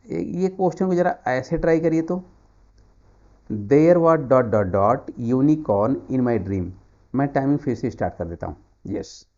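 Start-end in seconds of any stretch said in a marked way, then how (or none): 3.5-6.7 very slow, drawn-out reading; slow quiz read. Shown as a demonstration. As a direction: stretch the sentence out slowly. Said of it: "reads question slowly". (धीरे-धीरे वाक्य पढ़ना)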